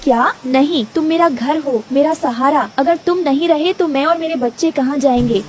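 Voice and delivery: mildly distressed mother bird; distressed Rano bird. Acted. Rano fearing loss of her tree home, distressed. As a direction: plead with a touch of worry.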